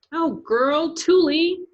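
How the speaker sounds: high, loud alarmed cry; girl calling to fallen friend, alarmed; cried out. Acted. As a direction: call out in alarm. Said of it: "Dreenie cried".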